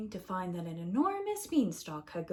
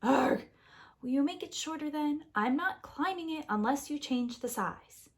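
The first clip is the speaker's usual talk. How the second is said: indignant Jack; 5 semitones higher than usual. Acted. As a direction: sound outraged at the deal. Jack voiced in story.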